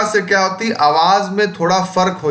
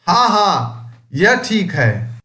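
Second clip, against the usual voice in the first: exclaiming; 3 semitones higher, slower than usual. Shown as a demonstration. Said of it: "यहाँ दोबारा विस्मय बोधक चिन्ह का इस्तेमाल हुआ है".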